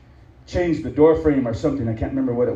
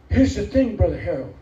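stern warning; 10 semitones higher, slower than usual. Acted. Pastor warning the congregation against cursing God's people, slow stern preaching. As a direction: lay it down slowly like a warning.

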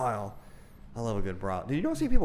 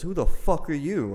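mock angry yell; 7 semitones higher, 4 dB louder, slower than usual. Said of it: "he started yelling at me".

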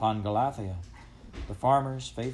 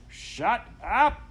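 high, loud command; angry shout; 13 semitones higher, 5 dB louder than usual. A narrator's reading. Farmer at window to howling dog, shouting angrily. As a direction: yell to silence the dog.

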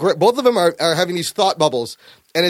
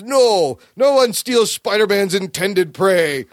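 mock monster; slower than usual. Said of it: "act, like, really creepy. Like he's a monster".

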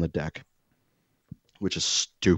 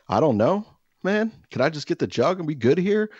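sheepish pleading; 8 semitones higher, 3 dB louder than usual. Retold or imitated. Pleading with the neighbor.

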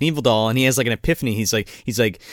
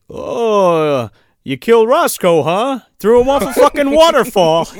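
higher, louder taunting question; mock accusing; 7 semitones higher, 5 dB louder than usual. Art confronted about Roscoe, mock accusing. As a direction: needle him with a loud accusation. Acted accusation in retold scene.

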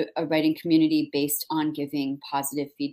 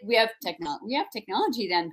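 Minnesota neighbor; 4 semitones higher than usual. Retold or imitated. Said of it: "They're like".

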